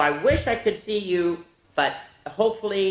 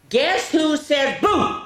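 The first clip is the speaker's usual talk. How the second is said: spooky storyteller; 11 semitones higher, 6 dB louder, slower than usual. Acted. Spooky reading to kids.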